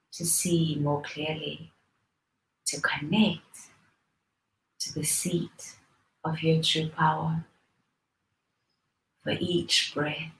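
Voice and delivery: soft, unhurried meditation guidance with long pauses; guided meditation. Real, not acted. Teacher leading listeners into breathing practice, soft guided meditation. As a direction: ease them gently into the breath.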